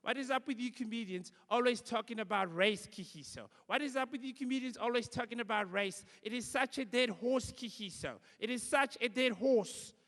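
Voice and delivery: mock white radio host. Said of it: "she said to me".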